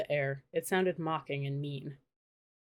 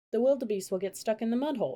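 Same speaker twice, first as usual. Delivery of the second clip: higher, anxious cry; worried cry; 5 semitones higher, faster than usual. A narrator's reading. Annie warning Jack about the wildebeest, worried cry. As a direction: sound the alarm for the animals. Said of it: "she cried".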